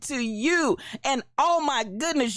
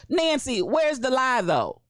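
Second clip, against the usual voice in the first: retold insistent quote; 4 semitones higher than usual. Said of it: "Somebody said it like this".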